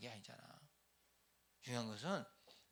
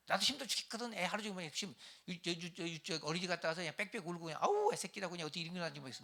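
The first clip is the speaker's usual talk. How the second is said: higher, louder exasperated rant; complaining wife; 5 semitones higher, 3 dB louder than usual. Acted. Wife complaining to husband about crying baby, exasperated rant. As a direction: vent how exhausted you are.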